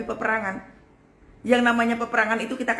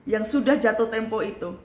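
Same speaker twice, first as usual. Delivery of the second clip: usual speaking voice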